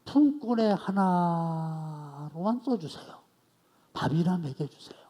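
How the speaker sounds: slow, humble plea of a beaten son; humble pleading son. Acted. The prodigal son begging his father, slow and humble. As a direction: beg to be taken back as a hired hand, slowly.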